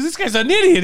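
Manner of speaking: high, loud, laughing disbelief; mock freak-out. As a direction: imitate someone losing it, half laughing. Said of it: "he's freaking out".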